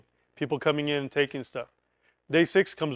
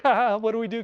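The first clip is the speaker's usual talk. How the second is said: nervous laugh; 5 semitones higher than usual. Retold or imitated. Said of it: "'cause they're nervous".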